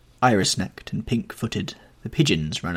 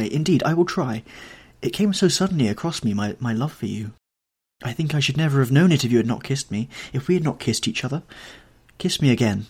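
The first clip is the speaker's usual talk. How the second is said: a lightly voiced young actress, tearful and begging, a little higher; pleading girl; 4 semitones higher than usual. Sybil on her knees begging Dorian to stay, pleading. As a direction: beg him not to leave, words tumbling out.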